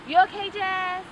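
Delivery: high, loud checking-in voice; caring sister. Retold or imitated. Imitating her sister checking back in, high fussing voice. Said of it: "she'll come back five minutes later".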